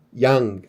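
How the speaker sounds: "yang" stretched slowly; drawn-out demo. Shown as a demonstration. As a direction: draw out "yang" with the final NG. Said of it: "vai ter som de". ("yang" alongado, com NG no fim)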